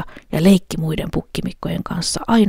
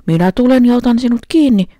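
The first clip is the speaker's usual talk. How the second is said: louder, higher troll threat; troll shouting; 7 semitones higher, 7 dB louder than usual. A narrator's reading. Troll shouting at the middle goat, loud threat. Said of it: "huusi peikko".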